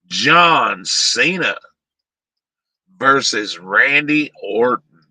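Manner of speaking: slow drawn-out announcer name; ring announcer. Pretend.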